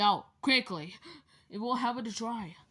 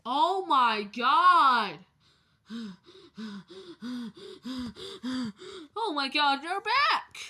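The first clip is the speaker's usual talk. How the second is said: joyful reunion; 3 semitones higher, 3 dB louder than usual. Pretend. Character greets returned friend.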